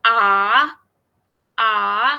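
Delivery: आ dipping low then rising; dipping third tone. Shown as a demonstration. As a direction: drop आ down and bring it back up. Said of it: "नीचे आके और उसके बाद दोबारा ऊपर जाएंगे".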